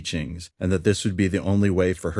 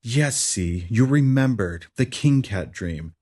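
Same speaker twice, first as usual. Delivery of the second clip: excited; 4 semitones higher, slower than usual. Acted. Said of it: "she told me with much excitement".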